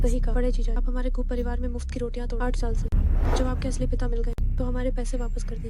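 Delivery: loud, mocking demand; loud taunting. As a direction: jeer at the brother-in-law loudly. Family demands money, mocking. (ऊँची आवाज़ में ताना)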